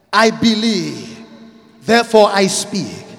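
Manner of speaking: firm confident declaration; said like you mean it. Shown as a demonstration. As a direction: declare it with conviction. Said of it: "Say it like you mean it".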